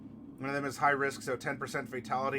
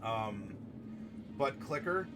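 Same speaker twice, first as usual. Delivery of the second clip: gentle condolence; 3 semitones lower, 6 dB quieter than usual. Real, not acted. Consoling Clicker over his cat, soft sincere comfort. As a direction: speak softly to a grieving friend.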